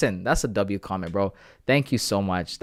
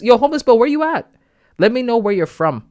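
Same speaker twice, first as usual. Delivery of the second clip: high, louder yo call-out; 11 semitones higher, 7 dB louder than usual. Real, not acted. Streamer calls out to chatter Homeless Bill, loud and high. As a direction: shout across to a chatter.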